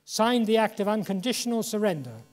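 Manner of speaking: lightly voiced Churchill, proclaiming the surrender; Churchill broadcast. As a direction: declaim it like a radio bulletin. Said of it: "announced in a world broadcast".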